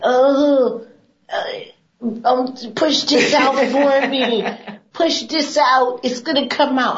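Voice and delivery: hammed-up mother pleading, slow and high; imitating mom. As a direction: daughter mimicking her mom asking to squeeze the tube. Mom voiced in retold story.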